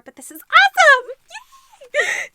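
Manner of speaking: very high and loud burst of joy; excited squeal. Real, not acted. Vlogger thanking gift sender, excited squeal.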